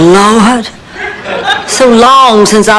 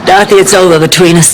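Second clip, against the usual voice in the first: shouted breakup; 5 semitones lower than usual. Acted. Stan breaking up with Dorothy, shouting. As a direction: blurt out the breakup at full volume.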